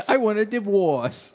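ceremonious mock priest with w for r; Princess Bride priest. Gina asking Robert for divorce, mock priest voice. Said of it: "Is that still the priest from The Princess Bride?".

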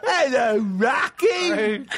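high, hammed-up animal lover voice; mock raccoon greeter. Imitating friend greeting animals in the backyard, mock calling. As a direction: call sweetly to the animals, overdone.

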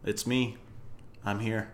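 congested cold voice; stuffy nose. Real, not acted. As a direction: speak through a blocked nose. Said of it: "You sound like you have a cold".

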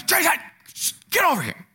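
high, sharp summons; stern God calling. Retold or imitated. God summoning Jason sternly, a sharp high call. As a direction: call him over firmly. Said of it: "Other times".

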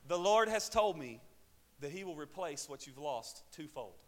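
prophesy in an imitated Kenyan accent, loud at first. Student comforts grieving pastor with prophecy, Kenyan accent. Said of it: "That's my Kenyan accent".

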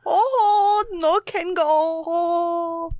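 hammed-up crying wail, drawn slow; mock wail. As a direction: wail it like fake grief. Mock wail at funny name.

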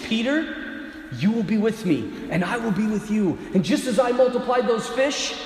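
calm promise, let it settle; gentle reassurance. Retold or imitated. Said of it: "He simply says to him".

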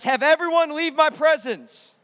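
a ruler sending everyone out, loud and slow; commanding order. Acted. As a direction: order the room cleared. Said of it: "and he says".

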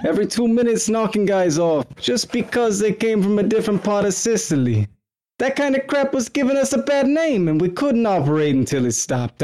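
put-on Luciano mobster accent. Friend reading Luciano's quote from the notes in a laughing mobster accent. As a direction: ham up a New York Italian mobster accent, cracking up. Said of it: "I'll do the accent".

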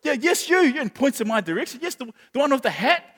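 a hint of a bubbly show host picking a volunteer; eager presenter. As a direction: call out to the crowd like a cheery host. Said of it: "the lady goes".

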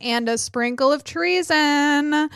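hammed-up, high-pitched welcome; mock show intro. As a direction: put on a mock host voice, high then settling. Joke new intro, then apologises.

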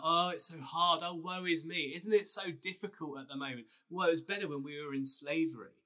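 hammed-up grumbling Israelites; mock moaning. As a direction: play up the woe-is-me complaint. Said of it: "loved to grumble and moan".

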